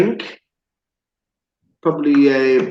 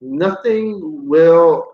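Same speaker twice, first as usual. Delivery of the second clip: slow; much slower than usual. Shown as a demonstration. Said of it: "the saying of this week is".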